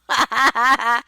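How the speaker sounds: a sudden loud burst of laughter. Real, not acted. Mocking friends' bad friends, a loud burst of laughter. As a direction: let a big laugh break out.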